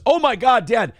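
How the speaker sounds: high mock-horrified daughter; shocked. Daughter reacting to dad's yelling, high and shocked. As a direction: imitate a kid appalled at a parent. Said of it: "that level of surprise".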